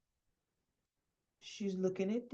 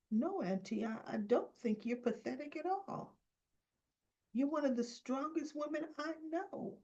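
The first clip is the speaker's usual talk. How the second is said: soft, higher-pitched retold reassurance; gentle reassurance; 7 semitones higher, 5 dB quieter than usual. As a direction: voice a nephew gently reassuring his aunt. Acted nephew reassures his upset aunt.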